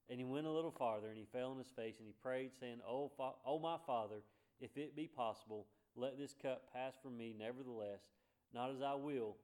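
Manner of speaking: emphatic preacher reading the Gospel aloud; scripture reading. Acted. Preacher reading Jesus' garden prayer, emphatic scripture reading. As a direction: proclaim the verse, leaning on key phrases.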